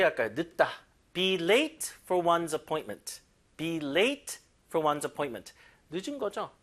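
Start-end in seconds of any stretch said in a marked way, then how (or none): 1.1-3.2 slow, stressing move; slow model reading. Shown as a demonstration. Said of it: "들어볼게요". 3.6-5.5 slow, stressing move; slow model reading. Shown as a demonstration. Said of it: "들어볼게요".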